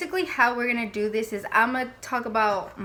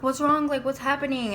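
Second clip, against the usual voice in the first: higher, mildly alarmed questioning; imitated concerned sister; 3 semitones higher than usual. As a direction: act out a worried sister checking in. Sister finds her sick at night.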